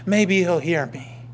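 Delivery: a hint of an anxious worshipper counting repetitions; bargaining, as if numbers make God listen; mildly voiced worshipper reciting by rote; reciting rote prayer.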